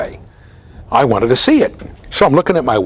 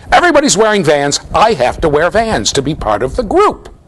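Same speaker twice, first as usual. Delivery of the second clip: higher-pitched, lightly mimicked teenage plea; a touch of an insistent adolescent, higher; pleading teenager; 6 semitones higher than usual. Son insisting to his father, mimicked teenage pleading.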